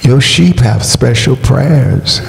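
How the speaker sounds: measured, earnest prayer with pauses between petitions; congregational prayer. Real, not acted. Pastor asks the Lord to bless his people, measured prayer. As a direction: pray in short, even petitions, pausing after each.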